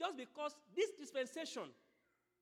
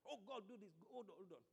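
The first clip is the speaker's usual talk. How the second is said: acted plea, trailing softer and lower; pleading priest; 3 semitones lower, 5 dB quieter than usual. Priest begging God to hold back anger, pleading. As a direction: plead urgently, then sink to a quiet begging. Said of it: "the priest will be pleading".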